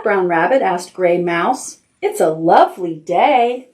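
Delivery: lightly voiced picture book reading; reading to children. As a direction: read it gently, like bedtime.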